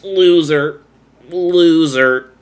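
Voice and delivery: loud, high drawn-out creature call; booming underwater call; king jellyfish call. Retold or imitated. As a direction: summon the jellyfish with a booming wail. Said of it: "from SpongeBob going".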